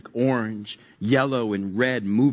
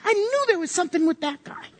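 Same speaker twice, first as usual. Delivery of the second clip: laughing gossip. Retold or imitated. Disciples gossiping about Peter.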